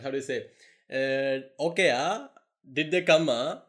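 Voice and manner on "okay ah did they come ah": Tamil Nadu English with a questioning ah; mock Chennai accent with tag ah. Shown as a demonstration. Speaker shows how he talked in Chennai: Tamil-accented English. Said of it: "I used to speak like Amma".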